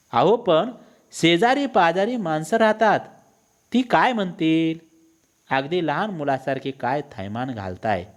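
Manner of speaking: lightly acted reproach over the neighbours; scolding wife. Acted wife scolding her husband.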